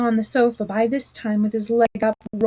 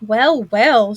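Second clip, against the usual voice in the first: hearty; 7 dB louder than usual. A narrator's reading. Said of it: "said the Mole".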